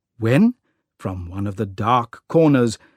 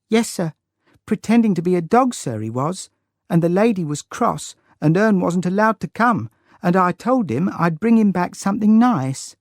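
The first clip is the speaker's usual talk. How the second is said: a lightly voiced small girl, high and rushing; eager little girl; 6 semitones higher, faster than usual. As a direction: tumble out the explanation, polite and earnest.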